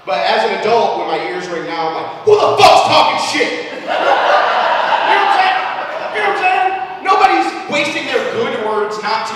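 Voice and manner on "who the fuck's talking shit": angry. Pretend. Angry reaction to ringing ears.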